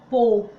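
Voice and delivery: pô with a closed o, stressed; pô fechado. Shown as a demonstration. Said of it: "ele é nasal".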